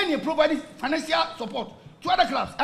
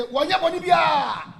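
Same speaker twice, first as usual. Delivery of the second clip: drawn-out call at full voice; slow shouted quote; 4 semitones higher, 4 dB louder, slower than usual. Retold or imitated. Angry supporter shouting a slow slogan at the FA. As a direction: stretch it out and shout it.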